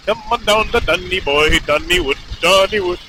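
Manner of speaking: put-on botched Irish accent that slips into Indian; Irish accent sounding Indian. Rider testing an Irish accent aloud, comes out sounding Indian. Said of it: "That sounded Indian".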